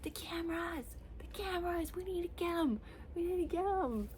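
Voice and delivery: mock-panic about the cameras; frantic paranoid shrieks. Acting out the paranoid heroine, frantic shrieks. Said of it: "tripping about being watched".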